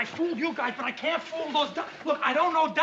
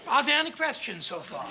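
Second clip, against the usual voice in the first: put-on Viennese lecturer; fake Viennese accent. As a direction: bluff the audience in a mock Viennese accent. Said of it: "Viennese will do".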